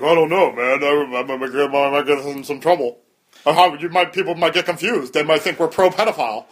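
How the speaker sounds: lightly voiced worried friend; Gary. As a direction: imitate a hesitant, fretful objector. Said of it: "And Gary's like".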